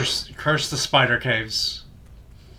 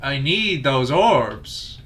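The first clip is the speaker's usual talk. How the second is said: vampire voice; 3 semitones higher, 6 dB louder, much slower than usual. Acted. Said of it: "You're starting to sound a bit like a vampire".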